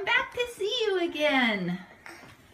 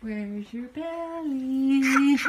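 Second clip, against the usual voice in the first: slow, laughing "Where's your belly"; giggling while asking; 3 semitones lower, much slower than usual. Real, not acted. Playful toddler talk.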